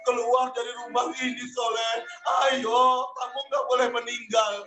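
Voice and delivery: tearful pleading while dragging him; crying plea. Acted. Jami dragging his friend out, tearfully begging. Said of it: "diseret keluar sambil nangis".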